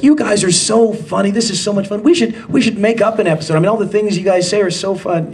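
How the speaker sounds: enthusiastic. Retold or imitated. Retelling a colleague's enthusiastic remark.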